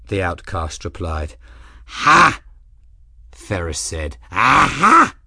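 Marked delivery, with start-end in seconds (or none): 1.9-2.4 high, loud exclamation; triumphant old man. A narrator's reading. Old man vindicated about the captain, exclaiming triumphantly. 4.3-5.1 high, loud cry of recognition; triumphant old man. A narrator's reading. Old man greeting the captain he predicted, triumphant.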